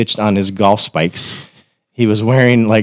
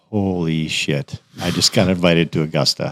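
stunned; 3 semitones lower, 5 dB quieter than usual. Retold or imitated. Reading the Augusta invite email, stunned and hushed. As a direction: let the shock drain your voice.

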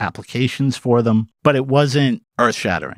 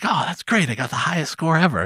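inner gloating, pitched up; mock smug thought; 8 semitones higher than usual. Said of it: "I'm thinking to myself".

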